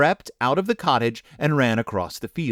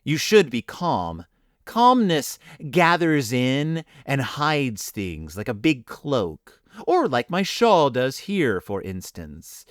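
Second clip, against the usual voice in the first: calm; slower than usual. Acted. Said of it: "in her usual voice".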